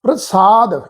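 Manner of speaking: ਪ੍ਰਸਾਦ with the r joined straight onto the p; ਪ੍ਰਸਾਦ said with pr fused together; correct pronunciation. Shown as a demonstration. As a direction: say ਪ੍ਰਸਾਦ as one cluster, pr-saad. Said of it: "ਪ੍ਰ ਪਾਠ ਆ".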